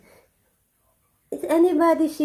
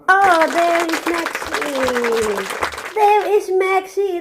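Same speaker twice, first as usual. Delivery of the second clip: slow, delighted cooing; 3 semitones higher, slower than usual. Real, not acted. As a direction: greet him with joy. Found the dog, delighted.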